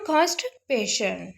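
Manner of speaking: कॉन्स्टिपेशन in two parts, "kaanst, pay-shun"; teacher's measured repeat of कॉन्स्टिपेशन; careful repetition. Shown as a demonstration. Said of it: "दोबारा repeat कर देती हूँ".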